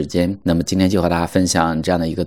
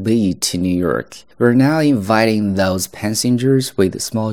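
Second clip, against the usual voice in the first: airport announcement; 3 semitones higher than usual. Shown as a demonstration. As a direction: announce it like gate staff. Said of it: "我再重新去读一下".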